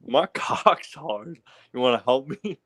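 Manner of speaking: slow teasing put-on voice; put-on joke voice. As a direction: drag it out, mock seductive. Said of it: "You were trying to talk normal".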